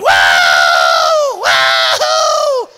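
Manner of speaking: John yelping as the wildcat jumps him; panicked woo. Retold or imitated. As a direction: yelp like something just grabbed you. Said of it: "and John's like".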